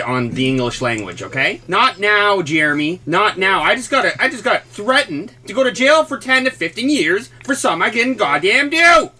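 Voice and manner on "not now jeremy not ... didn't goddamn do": mock outrage.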